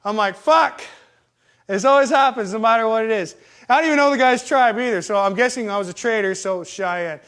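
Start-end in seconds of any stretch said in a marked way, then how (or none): 0.4-0.8 higher-pitched exasperated outburst; frustrated curse. Retold or imitated. Man kicked out of the bar, frustrated curse. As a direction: burst out with one frustrated curse.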